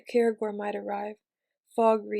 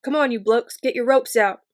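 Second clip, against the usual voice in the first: loud rallying call; calling out to the men; 9 dB louder than usual. Acted. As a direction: shout the men into action. Corporal calling to his soldiers.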